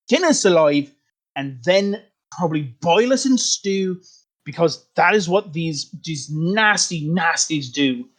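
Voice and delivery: lightly voiced, pushing hard for war. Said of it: "one of them a little bit louder than the others".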